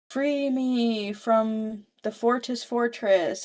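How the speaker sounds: slow, eerie tempting offer; lightly voiced monster. Destiny's monster tempts Tristan, slow eerie offer. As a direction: lure him in slowly.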